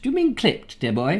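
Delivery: badly faked clipped English; old-fashioned English accent, put on lightly. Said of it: "wasn't even a good clipped accent".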